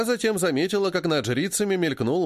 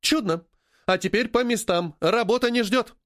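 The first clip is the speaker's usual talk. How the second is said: brisk command; 7 semitones higher than usual. A narrator's reading. Boss sends staff to work.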